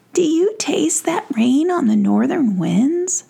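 a hint of a lofty prince; fairy prince. Prince asking Iris and Giroux, lightly lofty. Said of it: "said the fairy prince".

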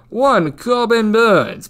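put-on slow, high old English accent on the name. Shown as a demonstration. To betting viewers, naming the pitcher in an old English accent. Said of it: "should be said in an old English accent".

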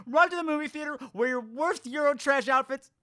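high, breathy hyped voice; campy trailer voice. Pretend. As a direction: sell it like a giddy drag hostess.

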